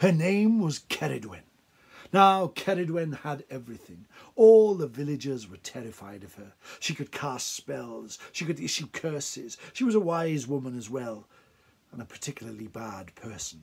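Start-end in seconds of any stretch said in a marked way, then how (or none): 0.0-1.4 storybook witch character voice. A storyteller introduces the witch of the tale, in Ceridwen's witch voice. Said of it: "she talked in a voice like this".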